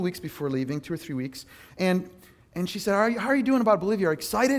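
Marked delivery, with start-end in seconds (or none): 2.9-4.6 quick, higher-pitched eager question; imitating excited mom. Mom asks about the Bolivia trip, mildly excited. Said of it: "she was all excited".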